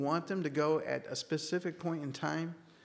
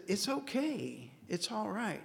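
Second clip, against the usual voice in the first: higher, soft and unhurried retold reassurance; gentle reassurance; 5 semitones higher, 5 dB quieter than usual. Customer calming the upset café manager, gently reassuring. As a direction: imitate calming someone down, softly and higher.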